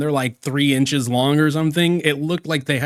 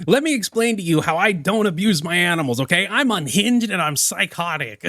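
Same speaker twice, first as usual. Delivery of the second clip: mock defense quote; 4 semitones higher than usual. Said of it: "who starts a defense like this".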